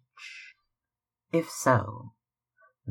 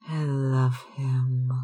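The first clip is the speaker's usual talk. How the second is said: simply; 3 semitones higher, 3 dB louder than usual. Acted. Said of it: "she said simply".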